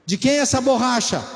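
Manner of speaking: quick pointed question; mock stern parent. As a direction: corner the child about the eraser. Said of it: "Parece conversa de filho".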